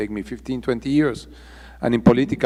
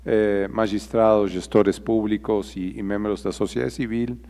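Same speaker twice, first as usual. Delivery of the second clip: Portuñol; 5 dB louder than usual. Real, not acted. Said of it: "I'm stronger in Portuñol than Portuguese".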